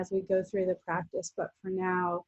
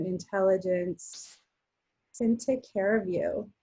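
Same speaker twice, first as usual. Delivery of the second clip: guided relaxation. Real, not acted. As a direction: ease them into rest with long pauses between phrases. Guides restorative rest practice.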